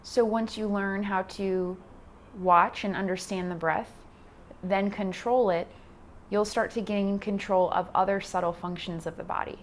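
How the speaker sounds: calm instruction with long pauses between cues; guided meditation. Acted. Yoga teacher guiding beginners through posture and breath, guided meditation. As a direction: talk them through it, unhurried, leaving space.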